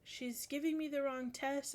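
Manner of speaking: mildly acted tearful plea. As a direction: imitate a distressed student tattling. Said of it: "like, just sobbing".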